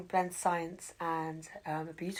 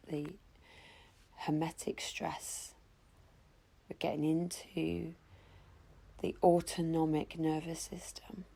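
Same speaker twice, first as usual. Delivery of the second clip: guided breathwork. Acted. Leads a guided breathwork session.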